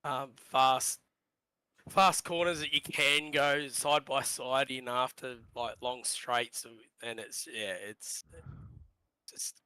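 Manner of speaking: hoarse, worn-out voice; husky and running out of voice. Real, not acted. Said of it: "I just gotta apologise for my, um, husky voice".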